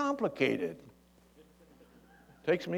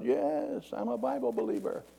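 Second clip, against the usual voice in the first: yelling down; 10 semitones higher, 4 dB quieter than usual. Retold or imitated. Man on the bridge answers, mock yelling down. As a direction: imitate a far-off call from above. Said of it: "The guy yells down".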